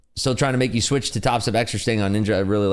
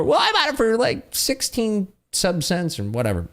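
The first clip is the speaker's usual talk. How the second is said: mocking crypto bagholder; 12 semitones higher than usual. Streamer imitating an XRP holder, high mock voice. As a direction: mimic a clueless investor drawling his price. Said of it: "And what did you buy it for".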